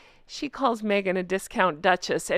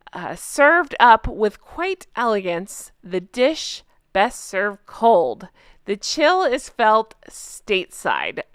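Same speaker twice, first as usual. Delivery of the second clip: dramatic article reading; slower than usual. Acted. Reads the article aloud.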